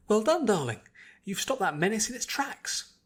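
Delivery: high, refined lady's voice; Rarity's praise. A narrator's reading. Rarity praising Twilight's spell, refined and delighted. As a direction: gush elegant praise.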